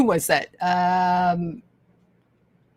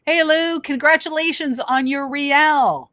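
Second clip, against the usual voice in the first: lightly voiced potato, a bit higher; potato congratulates Lou in a mildly raised voice; 5 semitones higher than usual. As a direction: play the potato cheering Lou on. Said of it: "The potato says".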